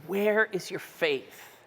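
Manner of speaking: slow, soft asking; a patient guide's gentle question. Shown as a demonstration. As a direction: ask it tenderly, slowly. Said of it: "the tone of Jesus".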